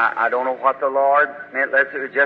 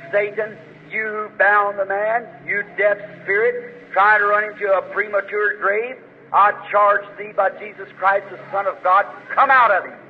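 rebuking a demon; 6 semitones higher than usual. Acted. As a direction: order the demon out with rising force. Rebuking the deaf spirit.

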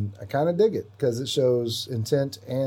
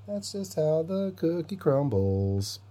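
slow theatrical villain menace; 6 semitones higher, slower than usual. Pretend. Gloating villain line.

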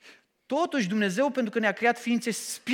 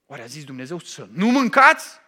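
sly tempter; 6 semitones lower, 7 dB louder than usual. Acted.

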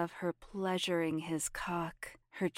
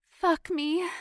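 pleading; 11 semitones higher, 7 dB louder than usual. Acted. Pleading with partner.

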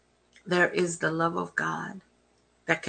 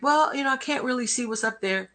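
impatient cashier; 6 semitones higher, 6 dB louder than usual. Retold or imitated. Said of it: "I was like".

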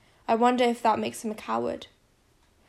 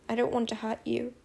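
tearful; 6 dB quieter than usual. A narrator's reading. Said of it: "I have to try again".

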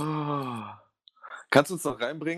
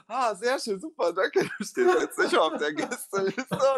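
sarcastic; 8 semitones higher, slower than usual. Retold or imitated. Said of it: "Und ich guck ihn so an und ich so".

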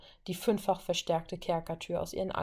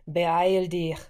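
louder call down the hall; 7 dB louder than usual. Acted. Brother calling after Wanda from the stairs, loud urgent call. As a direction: shout after her to hurry. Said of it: "rief ihr Bruder ihr hinterher".

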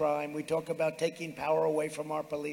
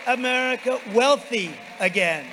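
roaring rallying speech; 5 semitones higher, 6 dB louder than usual. Real, not acted. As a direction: bellow it over the crowd. Rally finale.

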